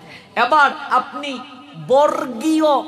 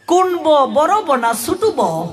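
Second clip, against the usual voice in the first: imitating people's question; 3 semitones higher than usual. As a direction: ask it slowly, mocking common usage. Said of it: "মানুষে কয়".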